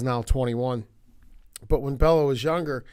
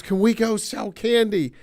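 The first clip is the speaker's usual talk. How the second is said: put-on high, loud eager child's plea; eager kid; 8 semitones higher, 6 dB louder than usual. Daughter waving her order form at Dad, eagerly begging in a high voice. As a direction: beg like a thrilled kid. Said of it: "she goes".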